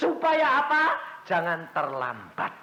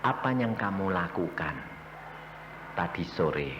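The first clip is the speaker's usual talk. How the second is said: God's voice; 10 semitones lower, 6 dB quieter than usual. Acted. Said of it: "Lalu Tuhan ngomong".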